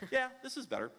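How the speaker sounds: ordinary delivery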